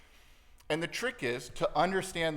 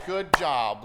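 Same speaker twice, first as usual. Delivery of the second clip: loud mock congratulations; mock cheering; 2 semitones higher, 10 dB louder than usual. Everybody praising the new guy, loud mock cheering. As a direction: cheer it out loudly, imitating an admiring crowd. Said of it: "everybody's clapping and cheering".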